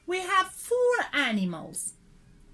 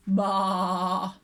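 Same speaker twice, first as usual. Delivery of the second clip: low bleating baa; sheep baa; 5 semitones lower than usual. Shown as a demonstration. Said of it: "their noise is like this".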